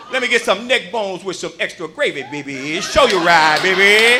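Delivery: smooth uncle ordering food; jive uncle ordering. Retold or imitated. Uncle ordering neck bones at the chicken counter, smooth jive. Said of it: "He lost his fucking mind".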